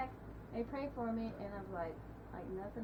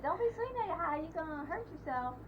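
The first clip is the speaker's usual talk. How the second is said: imitating mom's warning; 6 semitones higher than usual. Mother's warning voiced in story.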